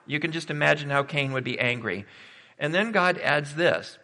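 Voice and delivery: usual speaking voice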